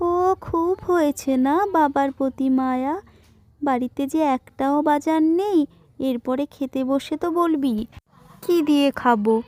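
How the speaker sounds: put-on a mother chiding her fussy kid; mock-stern mother voice; mother's voice. Mother scolds her child.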